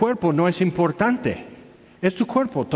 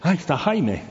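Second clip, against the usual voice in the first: store loudspeaker barker. Retold or imitated. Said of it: "Es la voz en las bocinas cuando pasas frente a Electra".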